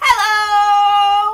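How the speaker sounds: very loud, high-pitched, drawn-out shout at full volume. Leading a clapping rhyme with listeners, the speaker says hello in a loud shout. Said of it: "Let's say hello as loud as we can".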